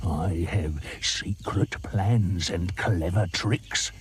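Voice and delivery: slow, low, scheming crocodile; slow and secretive; sly croc. Acted. Crocodile teases the monkey, slow and low. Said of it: "said the crocodile".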